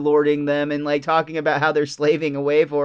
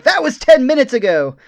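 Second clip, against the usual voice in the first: hammed-up shout of disbelief, a bit higher; mock exasperated yell; 8 semitones higher, 6 dB louder than usual. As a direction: bark it back like they can't believe him. Germans answering Homer, exasperated.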